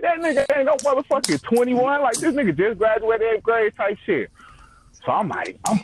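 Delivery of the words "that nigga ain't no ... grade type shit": put-on mama pitched high, scoffing at the boy; high mock-outraged mother voice; imitating mama. Mama voiced mocking the boyfriend.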